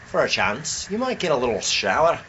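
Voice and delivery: a mock Scottish lilt; lightly hammed Scottish voice; Scottish accent. Friend doing a Scot talking weather, mock Scottish accent. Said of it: "No, that's Scottish".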